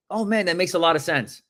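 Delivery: mildly excited, lifted delivery; upswing tone. Shown as a demonstration. Coach modelling a reply to rejection, upswing tone. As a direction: sound upbeat about being turned down. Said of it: "You want an upswing tone".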